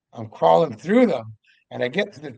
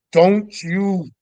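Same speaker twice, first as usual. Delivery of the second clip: stern order; 3 semitones higher, 6 dB louder than usual. Retold or imitated. Orders Darcy to stay inside.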